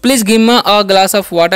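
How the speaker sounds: very slow English, each word apart; slow example sentence. Shown as a demonstration. Teacher modelling a polite request, very slowly. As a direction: read "Please give me your pen" very slowly. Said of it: "ऐसे भी बोल सकते हैं".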